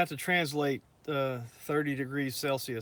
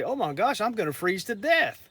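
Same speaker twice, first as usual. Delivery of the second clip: high-pitched mock alarm; playfully exaggerated dismay; mock freezing complaint; 6 semitones higher, 3 dB louder than usual. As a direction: imitate visitors moaning about the cold. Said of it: "they get down here and say".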